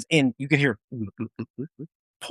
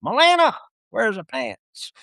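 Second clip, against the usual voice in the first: high sing-song Melina, slow teasing question; mock chaplain call; 4 semitones higher, slower than usual. Soldiers teasing the chaplain in the chow hall, high and slow. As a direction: tease it like the whole unit did.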